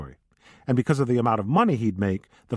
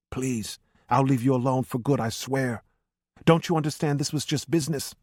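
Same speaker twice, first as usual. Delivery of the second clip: shaky pleading; 3 semitones higher than usual. A narrator's reading. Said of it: "Sal's red face and shaky voice".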